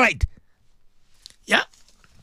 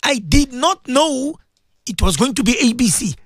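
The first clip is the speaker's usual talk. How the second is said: imagined pleading; 4 semitones higher than usual. Retold or imitated. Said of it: "you're gonna tell Allah".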